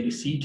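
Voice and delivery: रिसीट said as ri-seet with a silent p; रिसीट, no p sound, long ee; correct pronunciation. Shown as a demonstration. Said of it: "ये रिसिप्ट नहीं होता".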